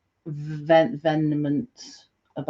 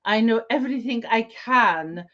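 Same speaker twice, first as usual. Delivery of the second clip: lightly voiced villain, measured and grand; Merovingian role play. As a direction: play the smug Merovingian, deliberate. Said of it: "I'm in performance mode now".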